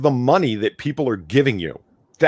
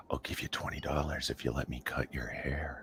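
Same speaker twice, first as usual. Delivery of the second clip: hushed, creepy whisper of the offer; 10 semitones lower, 17 dB quieter than usual. Retold or imitated. Streamer mocks the teacher's offer in a creepy whisper.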